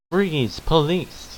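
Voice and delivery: high, drawn-out police call; mock police command. Acting police bursting in.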